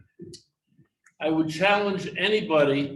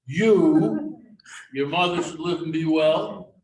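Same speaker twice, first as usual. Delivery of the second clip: sputtering rabbi; 6 dB louder, slower than usual. Retold or imitated.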